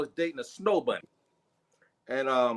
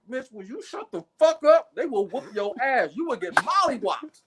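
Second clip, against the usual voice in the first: urgent warning; 7 semitones higher than usual. Retold or imitated. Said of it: "I'm like".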